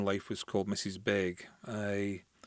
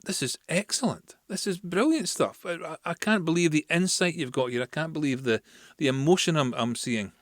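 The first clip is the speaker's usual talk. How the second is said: excited praise; 5 semitones higher than usual. Retold or imitated. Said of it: "read Burns's work and said".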